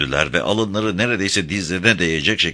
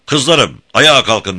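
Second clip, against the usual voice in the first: high, ringing shouted summons; Beşvayo; 7 semitones higher, 7 dB louder, slower than usual. A narrator's reading. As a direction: call the girls up loudly. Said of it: "diye bağırdı". (kızlarına yüksek sesle bağırarak)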